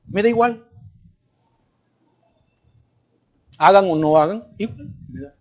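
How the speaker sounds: soft, halting don't-care voice; mock apathy, trailing away; imitated indifference. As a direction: shrug it off quietly. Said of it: "El problema de indiferencias".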